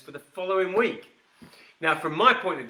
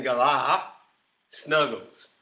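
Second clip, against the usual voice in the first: Galar as gə-LAH in a mock Australian accent; deliberately bad Australian accent on Galar Snuggles; lightly put-on Australian accent, slightly lower; poor Australian accent; 3 semitones lower, slower than usual. Shown as a demonstration. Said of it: "even if you've got a really poor Australian accent".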